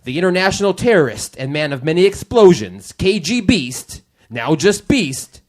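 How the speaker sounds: booming step-right-up showman; circus ringmaster. Acted. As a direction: sell the show like a carnival barker. Continues circus announcement.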